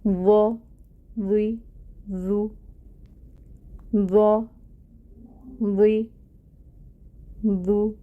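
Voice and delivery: each ظ said thick yet soft, no buzz; tajweed letter drill; heavy soft zha drill. Shown as a demonstration. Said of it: "بہت موٹا کر کے پڑھنا ہے اور پھر اس کو نرم بھی پڑھنا ہے".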